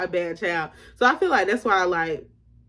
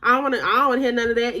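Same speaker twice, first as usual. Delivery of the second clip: dismissive mom; much faster than usual. Retold or imitated. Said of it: "She would just be like".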